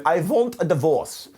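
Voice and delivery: badly faked French accent. Angry wife to husband on the microphone, bad French accent. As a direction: attempt a French accent and do it terribly. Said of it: "my attempt at a French accent".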